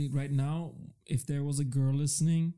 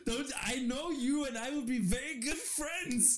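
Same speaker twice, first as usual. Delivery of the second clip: creepy stalker voice; 9 semitones higher, slower than usual. Pretend. Playing an obsessed stalker fan.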